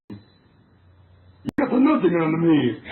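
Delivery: slow, rumbly monster growl with a laugh; Cookie Monster voice. Acted. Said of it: "Why are you doing the Cookie Monster voice?".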